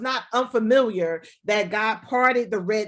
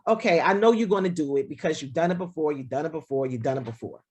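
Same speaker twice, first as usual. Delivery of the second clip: resigned acceptance; 6 semitones lower, faster than usual. Acted. Imagined weary acceptance of repeated behaviour.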